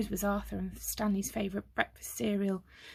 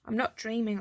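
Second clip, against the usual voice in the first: croaked under breath. Acted. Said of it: "Arthur croaked under his breath".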